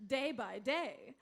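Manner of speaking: upbeat infomercial pitch; ad read. Acted. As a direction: sell the product with a grin.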